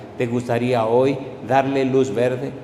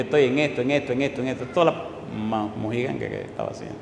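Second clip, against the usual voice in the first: softer and softer, trailing off; lightly voiced despairing young man; despairing mumble; 4 semitones lower, 6 dB quieter, faster than usual. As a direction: let it sink into shame. Young man's despair retold.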